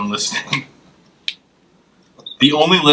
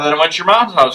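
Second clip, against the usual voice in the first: Danielle; 6 semitones higher, 4 dB louder, faster than usual. Retold or imitated. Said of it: "she'd be like".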